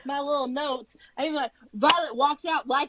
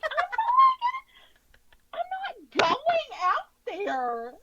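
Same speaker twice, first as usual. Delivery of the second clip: mock whimper; 14 semitones higher than usual. Refusing the parapet, mock terror.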